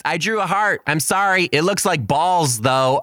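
lightly voiced sorry little boy; a hint of a small boy confessing; kid voice. Kid apologizing for heart drawing.

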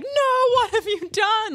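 high-pitched shocked cry; horrified. Retold or imitated. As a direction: gasp it out in horror. Director reacting to a broken fix.

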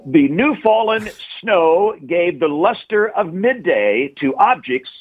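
big announcer voice. Acted. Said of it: "Let me get my big announcer voice on here".

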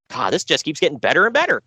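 dry sarcastic remark, a bit fast. Real, not acted. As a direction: say it like you mean the opposite. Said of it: "saying that with sarcasm in your voice".

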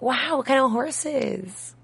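laughing. Retold or imitated. Laughing while quoting herself.

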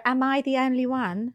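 relaxed conversational Essex accent; Essex, tossed off like everyday chat; casual Essex accent; natural Essex accent. Shown as a demonstration. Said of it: "let me just be more natural about it".

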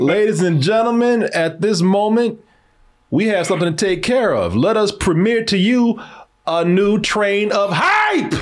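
formal build to a shouted last word; show announcer. Pretend. Host premiering a new video to viewers, grand announcer voice.

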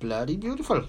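put-on a half-hearted Welsh accent on "Bloody beautiful"; a loose stab at a Welsh lilt; attempted Welsh accent. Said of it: "Could we say it in a Welsh accent?".

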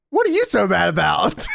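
high laughing outburst; amused yelling at the screen; laughing shout. Real, not acted.

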